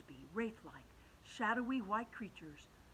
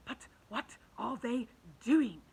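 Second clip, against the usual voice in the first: put-on old grasshopper; 4 semitones higher, 8 dB louder, slower than usual. A narrator's reading. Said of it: "the old green grasshopper whispered".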